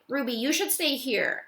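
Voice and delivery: firm, parental no-nonsense tone. Acted. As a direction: Bob tells Ruby to stay put, no-nonsense. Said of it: "I'm going for a no-nonsense voice".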